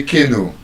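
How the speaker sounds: canoe as KEH-no; common mispronunciation. Shown as a demonstration. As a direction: put a stressed KAY at the start of canoe. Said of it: "Most people would say canoe".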